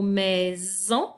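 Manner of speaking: "maison" with a clear buzzing Z; voiced Z sound. Shown as a demonstration. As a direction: say "maison" slowly, voicing the s as Z. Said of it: "j'entends le son Z". (« maison » avec le son Z)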